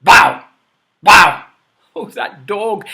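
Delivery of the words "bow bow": loud barking bow bow; loud dog barks. Shown as a demonstration. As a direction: bark it out for the kids. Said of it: "Can you say that?".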